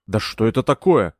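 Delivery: plain reading voice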